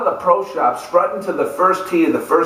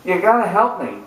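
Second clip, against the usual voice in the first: begging; 3 semitones higher than usual. Retold or imitated. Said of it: "I went to her begging".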